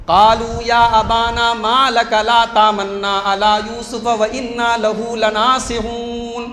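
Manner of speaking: slow chanted Arabic verse; Quranic recitation. Acted. Preacher chants the sons' verse to the congregation. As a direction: recite slowly in tilawat.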